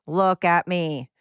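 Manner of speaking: slow, drawn-out mock plea; pushy attention-seeker. Pushy yellow jackets demanding attention, slowly and mock-insistent. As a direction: stretch out each word to demand notice. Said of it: "really get in your face".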